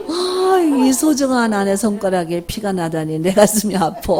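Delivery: overdone tender lament; hammed-up doting husband. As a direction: gush over a tiny wound like a doting husband. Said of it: "어떻게 하기를 기대하는 거예요, 남편이".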